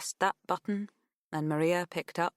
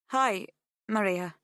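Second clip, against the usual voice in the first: nervous; 3 semitones higher, 3 dB louder than usual. Acted. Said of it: "fiddling nervously with the pen".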